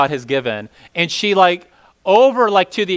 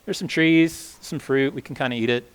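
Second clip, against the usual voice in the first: mild shrug, fading softer; downplay it as if it's no big deal; half-hearted, trailing-off reply; unimpressed; 5 dB quieter than usual. Retold or imitated. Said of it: "she's kinda like".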